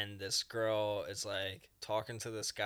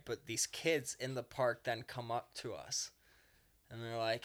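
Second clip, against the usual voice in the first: usual speaking voice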